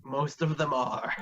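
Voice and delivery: put-on very old man. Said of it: "my old man voice".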